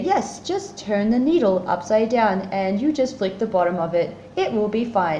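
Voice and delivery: calm coaching. Retold or imitated. Partner instructing panicking patient with colleagues listening, calm. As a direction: talk someone gently through it, carefully composed.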